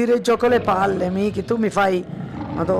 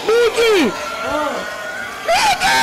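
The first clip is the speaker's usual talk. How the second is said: panicked cries; slower than usual. Real, not acted. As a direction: cry out for her son in terror. Mother terrified, calling son. (grida terrorizzata chiamando il figlio)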